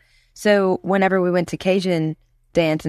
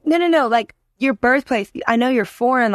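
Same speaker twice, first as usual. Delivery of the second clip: higher-pitched mock insistence; insistent disbelief; 5 semitones higher than usual. Imitating people asking her birthplace, insistent. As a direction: press the question, imitating a doubter.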